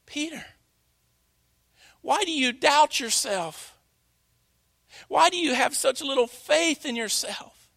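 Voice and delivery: soft, tender question; a hint of a gentle, caring Jesus. Preacher voicing Jesus gently to Peter, soft and tender. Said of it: "the one who was still standing".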